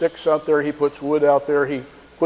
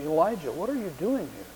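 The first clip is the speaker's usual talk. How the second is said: slow, soft and hushed; God speaking in a still small voice; quiet whisper; 2 semitones higher, 8 dB quieter than usual. A narrator's reading. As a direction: ask it gently under the breath. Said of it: "in that slow and quiet whisper".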